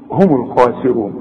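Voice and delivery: هم الخاسرون with every letter sounded out; correct recitation. Shown as a demonstration. Teacher shows the correct reading to his student. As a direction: say هم الخاسرون cleanly, full letters. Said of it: "العربي الأصيل هو اللي يطلع الحرف".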